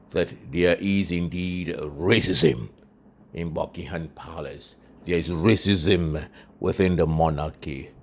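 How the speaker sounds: hammed-up news anchor; mock news read. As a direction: read it like a breaking bulletin. Mock BBC Africa news report.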